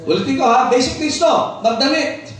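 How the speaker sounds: high, punchy pulpit proclamation; emphatic preaching. Real, not acted. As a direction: drive each phrase home to the congregation.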